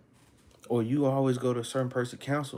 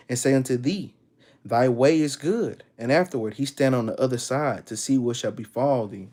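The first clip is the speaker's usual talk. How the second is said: louder, measured preaching read of the verse; scripture reading; 5 dB louder than usual. Acted. Preacher reading Sirach to his listeners, louder and deliberate. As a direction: proclaim the verse, slowing on key phrases.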